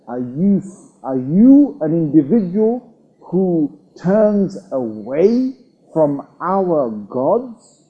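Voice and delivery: very slow, stern interrogation of his son; a hint of an angry father, slowed right down; stern father questioning. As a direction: drag out each word like a displeased father. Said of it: "his father snapped at him".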